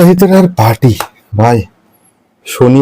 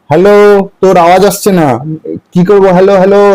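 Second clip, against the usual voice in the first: fake bad line; 5 semitones higher than usual. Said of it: "তোমার network jam হয়ে গেছে না?".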